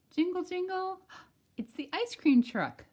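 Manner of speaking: high, loud, thrilled jingle and gasp; excited. Acted. Grandmother excitedly spotting the ice cream truck. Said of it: "Abuela Rosa says".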